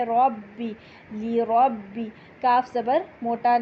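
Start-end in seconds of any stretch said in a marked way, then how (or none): 0.0-2.1 ربی with the doubled ba held; held shaddah. Shown as a demonstration. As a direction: hold the ba in ربی. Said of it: "تشدید کو hold کرتے ہوئے". (ربی میں تشدید روک کر)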